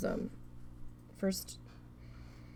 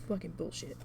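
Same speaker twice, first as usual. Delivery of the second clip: muttered under breath; 7 dB quieter than usual. Retold or imitated.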